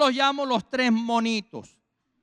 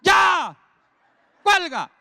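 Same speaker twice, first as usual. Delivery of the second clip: loud, higher ghostly voice from the tomb; voice from beyond the grave; 5 semitones higher, 3 dB louder, slower than usual. Retold or imitated. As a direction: call out like a voice from the grave. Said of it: "uno oye la voz de ultratumba".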